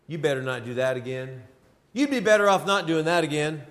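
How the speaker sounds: low, hushed serpent voice, lightly voiced; serpent whispering. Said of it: "the serpent whispering".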